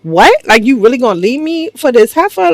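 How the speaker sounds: mock incredulous pleading, pitch lifted; retold groveling. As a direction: imitate a disbelieving wife begging. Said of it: "she's groveling 'cause she's just like".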